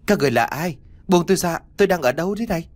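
acted panic, demanding to be let go; frightened yelling. A narrator's reading. Captive to strange attackers, frightened yelling. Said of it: "tôi không ngừng la hét".

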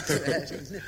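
laughing. Acted. Klava laughing along with Pasha.

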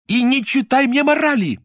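shrill-high, loud angry shout. A narrator's reading. Lyuda screams at Nadya to stop moralising, furious shout. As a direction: scream it at the top of the voice. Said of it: "Её голос взлетел до крика".

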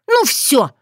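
high snapping threat; had enough. Acted. Otrada about to attack Bogdan, furious. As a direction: lose your temper.

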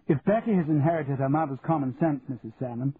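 lightly voiced gracious hostess; society Daphne, complimentary. Daphne to Becky's mother at tea, gracious praise.

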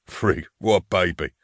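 slow, mildly amused jeer; laughing scorn. A narrator's reading. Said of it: "de Rol laughed".

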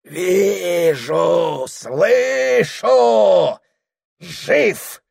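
high, strained shaman cry; hoarse trance cry. Acted. Shaman wheezes his vision, high and strained. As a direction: rasp it out exhausted. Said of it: "хрипел шаман".

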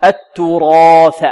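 slow التراث, dark long alif after ra; heavy ra and alif. Shown as a demonstration. Teacher demonstrates the rule, heavy alif in slow التراث. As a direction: stretch a full, heavy "raa" in التراث. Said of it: "الألف مفخمة كذلك".

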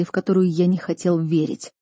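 ordinary delivery

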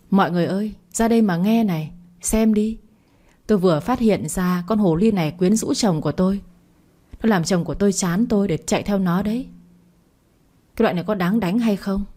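usual speaking voice

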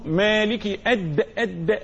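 "أد" with a firm voiced d released at the end; clear dal. Shown as a demonstration. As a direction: land hard on the د of "أد". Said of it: "هكذا".

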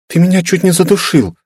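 put-on high girlish scolding; lightly voiced playful reproach; girl half-scolding him; mock complaint. Girl scolding after tight hug.

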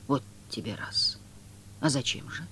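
calmly puzzled, barely above a whisper; Woland's voice. A narrator's reading. Woland's calm surprise. (Воланд тихо и удивлённо)

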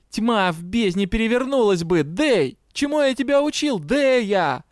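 high, exasperated harangue; yelling on. A narrator's reading. Дроу reproaches the colleague he taught, exasperated yelling. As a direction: scold her like a failed pupil. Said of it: "заорал Дроу".

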